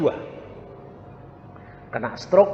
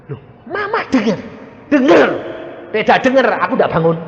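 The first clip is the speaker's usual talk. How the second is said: 1 retold family exchange; 9 semitones higher, 7 dB louder than usual. Family and mother retold in dialogue.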